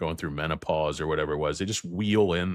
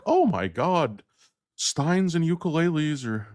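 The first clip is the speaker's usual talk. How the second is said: high, louder movie-quote voice; quoted film character; 11 semitones higher, 4 dB louder than usual. Acted. Reacting in a Best in Show quote, high mock exclamation. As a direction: exclaim it in a raised put-on voice. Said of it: "He's like".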